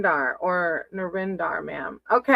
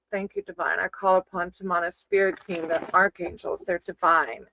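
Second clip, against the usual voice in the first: prayer. Acted. Tarot reader's prayer to spirit guides.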